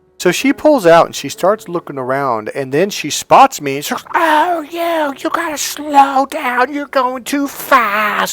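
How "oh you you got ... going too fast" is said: mock, very high, shrill, stretched-out shriek. Retelling how a driver in a parking lot yelled: imitating someone screaming. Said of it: "she's screaming at me".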